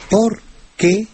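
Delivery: "por qué" pulled apart into two words; separated words. Shown as a demonstration. Teacher showing the separated form, "por qué" in two detached words.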